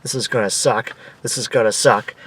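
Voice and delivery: low, soft repeated grumble; pissy muttering. Retold or imitated. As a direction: grumble it under your breath, annoyed.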